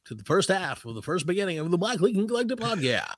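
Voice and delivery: booming radio intro; radio announcer voice. Pretend. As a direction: welcome listeners like a DJ. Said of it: "Let's do it the rest of the show".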